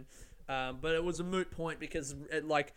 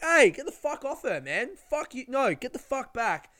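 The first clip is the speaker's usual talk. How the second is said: high, loud re-enacted warning; acted shouting; 8 semitones higher, 8 dB louder than usual. Teller to the screaming woman grabbing someone, acted angry shout. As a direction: shout it as if pulling off an attacker. Acting out intervening in the fight.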